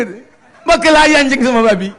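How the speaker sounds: ordinary delivery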